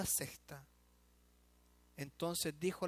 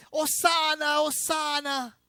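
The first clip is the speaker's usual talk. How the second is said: loud, high Hosanna cry, much louder; aclamación; 12 semitones higher, 15 dB louder, slower than usual. Retold or imitated. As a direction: hail him joyfully. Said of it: "que están diciendo". (hosanna gritado con júbilo)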